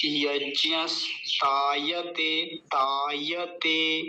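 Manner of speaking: यज्ञस्तायते with स closing यज्ञ, then long तायते; very slow यज्ञस्तायते, split before ता; स joined on. Shown as a demonstration. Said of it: "स को इसके साथ मिला के". (यज्ञस्तायते में स मिलाकर)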